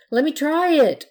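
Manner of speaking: put-on high, loud plea of an eager child; begging. A narrator's reading. Little pirate asks Blanche for a turn on the broom, begging. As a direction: beg loudly, pitched well up. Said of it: "the pirate begged".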